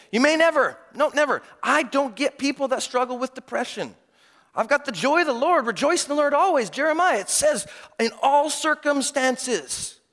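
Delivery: high, loud, preachy boasting; lampooning a self-righteous believer who judges the depressed; mocking smugness.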